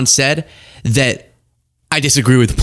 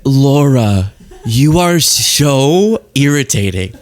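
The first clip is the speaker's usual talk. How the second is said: laughing exasperation; slower than usual. Real, not acted. Exasperated at clip.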